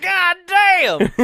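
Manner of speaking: high, loud vendor curse; stadium vendor hawking. Pretend. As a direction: bellow it as the vendor. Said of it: "Peanut Man".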